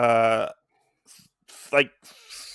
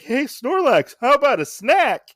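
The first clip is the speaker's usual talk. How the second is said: put-on higher, coaxing kid tempting Snorlax; offering voice; 10 semitones higher, 5 dB louder than usual. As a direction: dangle the snack with a lilt. Voicing Red offering snack.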